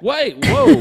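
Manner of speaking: high, loud mock yelp to stop someone leaving; retold alarm. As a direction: act out a startled guard calling him back. Retold guard stops him leaving again.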